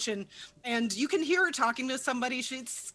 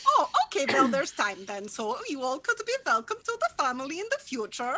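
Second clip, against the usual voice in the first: doting mother; 2 semitones higher than usual. Acted. Mother voiced by GM.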